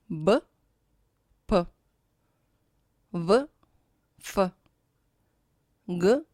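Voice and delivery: each consonant as a short isolated sound with a tiny schwa; buh-puh, vuh-fuh, guh-kuh, spaced out; voiced and voiceless pairs. Shown as a demonstration. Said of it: "pairs of voiced and voiceless consonants".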